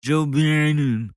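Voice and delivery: incredulous imitation of his Joe Biden; mock Joe Biden. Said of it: "Did you hear that?".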